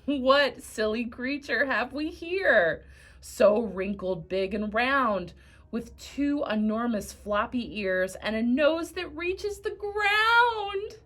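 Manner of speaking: slow sneering voice rising high at the end; mocking donkey. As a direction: tease the elephant scornfully. Donkey mocks the elephant.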